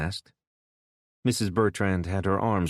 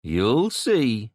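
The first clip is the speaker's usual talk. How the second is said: repeated threat; 5 semitones higher, 5 dB louder than usual. A narrator's reading. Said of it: "the kid repeated".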